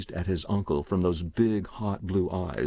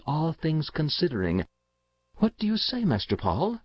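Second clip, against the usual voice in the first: higher-pitched, deferential storyteller; Bassett, deferential servant; 4 semitones higher than usual. Acted. Bassett explains the betting to the uncle, deferential and higher pitched. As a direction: spin the yarn respectfully to a gentleman.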